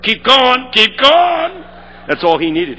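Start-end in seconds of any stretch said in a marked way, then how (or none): 0.0-1.6 mock call-out, louder; egging the preacher on; congregation yelling. Congregation member calling out, keep going. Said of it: "Somebody yelled".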